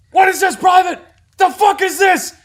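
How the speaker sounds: high loud barked shout; drill sergeant shout. Retold or imitated. Drill sergeant confronting a private, loud high shout. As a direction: bark it at the recruit.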